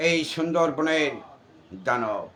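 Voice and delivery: booming stage demon voice, ranting; jatra demon role. Acted. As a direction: declaim like a folk-theatre demon. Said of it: "এটা সাপুরের মেয়ে যাত্রা অভিনয় দানবের". (যাত্রার দানবের কণ্ঠে অভিনয়)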